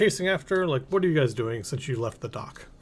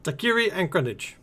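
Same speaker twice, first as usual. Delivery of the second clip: put-on higher-pitched Kuala Lumpur-style accent; foreign merchant accent; 5 semitones higher than usual. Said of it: "I don't know why they have this accent".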